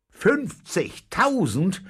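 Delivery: high, loud, drawn-out questioning cry; astonished cry. A narrator's reading. Captain hears of the huge reward, astonished shout. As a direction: call it out slowly in disbelief, rising at the end. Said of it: "rief der Käpt'n".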